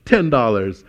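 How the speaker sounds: high, loud know-it-all mother; lecturing mom. Retold or imitated. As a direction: spell it out like a smug mom. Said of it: "my mom was like".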